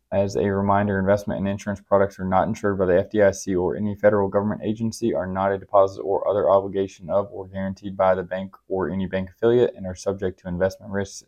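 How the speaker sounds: rapid low monotone disclaimer read; fast legal disclaimer. Real, not acted. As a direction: rattle off the fine print quickly. Podcast compliance disclaimer read.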